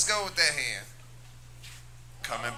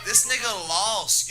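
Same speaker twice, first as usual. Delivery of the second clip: blunt shout; 4 semitones higher than usual. Real, not acted. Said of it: "should I just be brutally honest".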